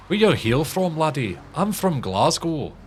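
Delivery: high, hammed-up Scottish lilt; stereotypical Scottish accent. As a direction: lay on a stereotypical Glasgow accent. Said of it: "Can you talk with a Scottish accent?".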